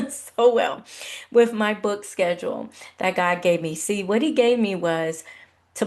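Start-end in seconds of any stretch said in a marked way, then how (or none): 0.1-0.8 so well with a laugh; laughing repeat. Real, not acted. Laughing as she repeats to viewers. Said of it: "I was doing so well".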